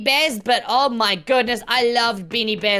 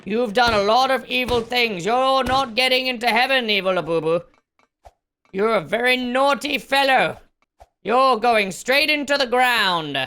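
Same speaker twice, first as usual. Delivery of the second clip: God Labubu. Acted. God figure sentencing the evil Labubu, mock-solemn deity voice. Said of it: "Like a god Labubu".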